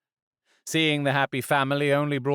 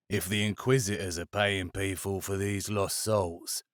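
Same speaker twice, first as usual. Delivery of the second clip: lightly voiced low, softer musing; Varlo, quiet; 4 semitones lower, 6 dB quieter than usual. A narrator's reading. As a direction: let it trail off.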